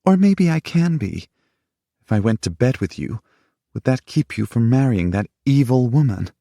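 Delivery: wounded lover lashing out; angry challenge. A narrator's reading. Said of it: "She glared at him".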